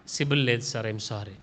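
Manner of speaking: soft, low-key banker turning you down; a polite, hushed no; quiet refusal. Pretend. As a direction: let the applicant down quietly and flatly. Banker refusing a loan applicant.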